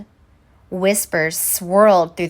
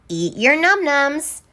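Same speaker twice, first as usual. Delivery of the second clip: put-on coaxing baby talk; 5 semitones higher than usual. Elves coaxing baby to eat.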